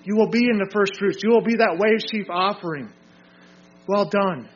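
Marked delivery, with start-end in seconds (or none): 3.9-4.5 firm praise at a normal volume; commendation. Acted. Preacher voices approval to those overcoming, firm commendation. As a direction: commend them clearly with a falling close. Voicing divine praise, then repeating it.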